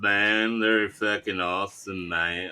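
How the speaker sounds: lazy, laid-back surfer-dude voice; stoner surfer. Pretend. Friends joking about streamers, as a stoner surfer. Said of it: "A stoner surfer".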